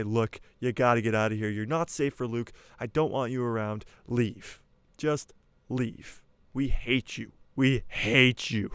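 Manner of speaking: hammed-up banishing rant ending slow on we hate you; angry uncle. Uncle Owen ordering Obi-Wan away from Luke, angrily. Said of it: "he's going to say".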